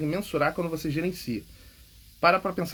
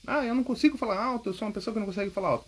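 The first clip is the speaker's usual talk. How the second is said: mock timid complainer; 6 semitones higher, faster than usual. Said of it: "Eu não falo alto".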